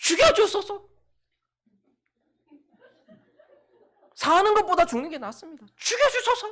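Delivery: fuming shriek, very high, very loud, shrill. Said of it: "열받아가지고 막 뒤로 넘어가는 거예요".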